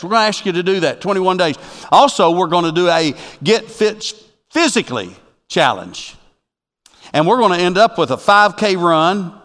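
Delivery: rally the congregation to the challenge; rousing preaching. Real, not acted. Rallies the church to a challenge.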